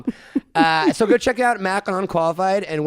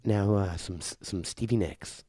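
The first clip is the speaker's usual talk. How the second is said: soft radio voice; 7 semitones lower, 6 dB quieter, slower than usual. Pretend. Continuing the soft radio bit.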